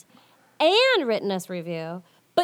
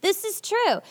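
squeaky high voice; 11 semitones higher than usual. Pretend.

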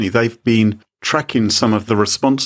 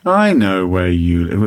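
sexy; 3 semitones lower than usual. Retold or imitated. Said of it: "That's kind of a bit, a bit sexy".

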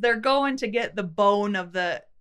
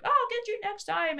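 higher, softer cartoon-villain vow; hammed-up T-Rex vowing revenge; mock villain T-Rex; 10 semitones higher, 6 dB quieter than usual. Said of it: "the T-Rex is like".

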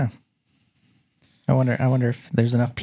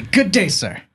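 dismissive Good day, sir; signoff catchphrase; 7 semitones higher, slower than usual. Pretend. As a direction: say it like a curt farewell. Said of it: "And to that, I say".

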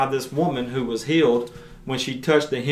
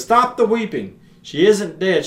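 firm command; 6 semitones higher, 5 dB louder than usual. Acted. Jesus commands the mourners.

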